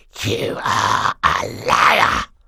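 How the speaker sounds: very slow, rough hissing voice. Reading a story aloud, a villain accuses a girl of lying: hissed. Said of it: "he hissed at Violet".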